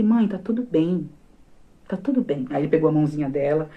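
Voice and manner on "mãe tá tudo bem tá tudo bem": calm doctor. Retold or imitated. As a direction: play the calm doctor soothing a panicked mother. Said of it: "Ele tranquilo, todo pleno".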